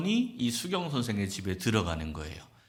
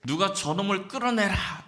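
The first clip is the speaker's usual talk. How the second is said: high-pitched acted burst of temper; angry command; 10 semitones higher than usual. Angered teacher ordering his pupils to remove the rebel, acted angry command. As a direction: order it out high, as an enraged master. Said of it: "사마이가 승질이 나가지고".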